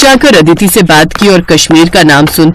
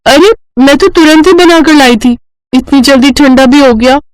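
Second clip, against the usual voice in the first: put-on higher-pitched young bride, taken aback; surprised protest; 4 semitones higher than usual. Bride protests to in-laws about cold tea, surprised. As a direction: protest in mild disbelief.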